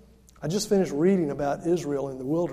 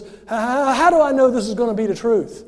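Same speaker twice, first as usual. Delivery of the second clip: stammering, louder frightened question; trembling Zechariah; 4 semitones higher, 8 dB louder than usual. Retold or imitated. Zechariah answering the angel Gabriel, stammering in fear. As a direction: stutter it out in awe. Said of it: "Zechariah stands there trembling".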